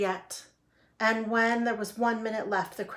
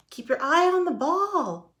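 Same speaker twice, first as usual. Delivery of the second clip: high, loud call across the field; shouted coaching; 8 semitones higher, 5 dB louder than usual. A narrator's reading. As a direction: shout advice to a distracted player.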